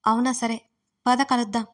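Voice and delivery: bright and eager; delighted to see an old friend; happily. Acted. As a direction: friend excited about a reunion. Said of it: "సంతోషంగా".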